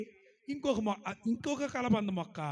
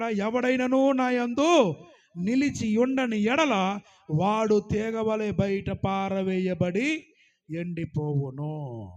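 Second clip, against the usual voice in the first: slow emphatic reread; 4 dB louder, much slower than usual. Acted. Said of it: "ఏమంటున్నాడు ఇక్కడ?".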